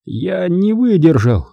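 high, drawn-out woeful confession; contrite lament. A narrator's reading. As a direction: confess it slowly, crushed with regret. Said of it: "сокрушённо поведал дядя". (сокрушённое признание)

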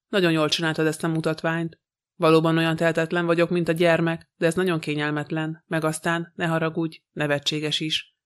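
ordinary delivery

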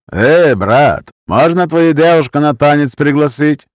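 put-on drunken older man with Gypsy accent. A narrator's reading. Drunk man asking for a dance, Gypsy accent. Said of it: "голос с цыганским акцентом".

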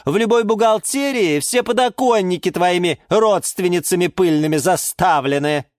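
high-pitched haughty outcry; scornful yelling. A narrator's reading. Orchid mocks the geranium's dream, scornful yelling. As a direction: wail with contempt at a rival. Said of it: "завопила из своего кашпо орхидея Галатея".

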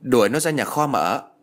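mild angry shout, read with restraint; understated scolding command; shouted order. Acted. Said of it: "Hai Hường quát lớn".

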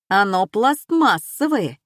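usual speaking voice

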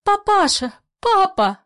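high, loud cry to father; calling from another room. A narrator's reading. Daughter calls to her father from her room, high cry. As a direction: call out high and urgently. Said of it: "Татьяна из своей комнаты".

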